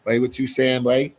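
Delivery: put-on light Bahamian accent, teasing; a quick playful Bahamian accent. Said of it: "that's that Bahamian accent I just did".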